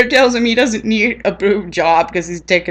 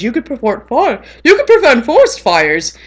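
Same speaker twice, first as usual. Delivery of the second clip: mock Smokey voice; 5 semitones higher than usual. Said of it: "comes up to him and says".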